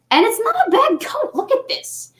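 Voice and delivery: high silly voice. Pretend. Showing off the coat.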